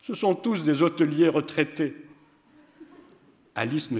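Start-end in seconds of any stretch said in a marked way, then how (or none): 0.0-1.9 higher, louder, unhurried voice for the white man; white man's voice. A narrator's reading. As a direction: give the white man an odd, lofty tone.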